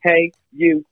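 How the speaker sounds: high radio host voice; high hyped radio DJ; a rapper. Pretend. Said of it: "your boy the rapper".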